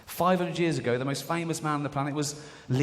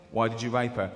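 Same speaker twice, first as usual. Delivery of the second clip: stern judge; 5 semitones lower than usual. Acted. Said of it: "with the judge going".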